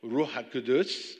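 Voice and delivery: Ruach HaKodsh with a throaty Arabic ch; Arabic pronunciation. Shown as a demonstration. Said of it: "now I say that in an Arabic accent".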